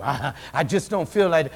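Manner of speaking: sulky mumble. Retold or imitated. Sulker mumbles reply.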